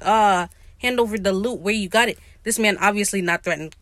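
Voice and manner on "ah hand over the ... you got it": mock threat, badly faked; failed threat. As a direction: imitate a feeble attempt to intimidate. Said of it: "try and fail to threaten".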